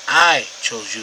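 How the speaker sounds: "I" set apart with emphasis; emphatic I. Shown as a demonstration. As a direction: stress on "I" in "I chose you". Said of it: "is emphatic".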